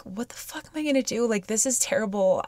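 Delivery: stuck in traffic, a touch of tearful despair; retold crying. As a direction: voice her own helpless tears, understated. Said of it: "I start crying".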